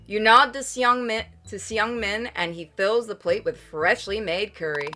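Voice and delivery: usual speaking voice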